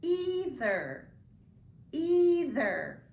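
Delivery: "Either" opened with a long "ee"; long E sound. Shown as a demonstration. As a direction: say "Either" as EE-ther, stretched for spelling. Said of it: "What makes that E sound".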